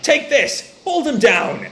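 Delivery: high-pitched imitation of brawlers calling out; mock fight cries. Recapper voicing delinquents in a street fight, mock urgent cries. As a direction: call out orders mid-brawl, playfully acted.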